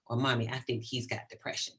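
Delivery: soft, hushed whisper; child whispering to mom on the subway. Retold or imitated. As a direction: lean in and whisper it. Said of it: "she'll lean over and whisper".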